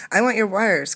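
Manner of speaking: eager request. Acted. Condi eagerly asking his friend Gift for wires. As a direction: push for the wires, keen.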